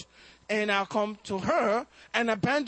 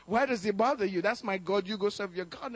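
smiling mother; 3 semitones lower than usual. Retold or imitated. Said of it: "had this little smile on her face".

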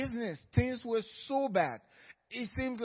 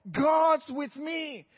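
crying; 6 semitones higher, 5 dB louder, much slower than usual. Real, not acted.

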